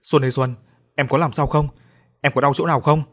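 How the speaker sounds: calling out anxiously to her; worried call. Acted. Tied-up man calls to Xuân to check she's hurt, worried call. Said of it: "Hoài từ phía trước kêu lên".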